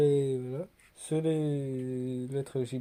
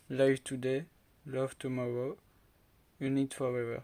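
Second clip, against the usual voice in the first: reading the slogans out in a shaky English accent. Real, not acted. Vlogger reading English slogans off the box, in an English accent. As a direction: try an English accent on the box text, not quite landing it. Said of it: "jugez pas mon accent anglais".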